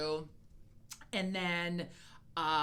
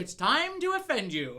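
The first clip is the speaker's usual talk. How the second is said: louder, slow teasing warning; mock ominous; 6 semitones higher, 5 dB louder, slower than usual. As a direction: drag it out like a mock threat. Teasing before offending.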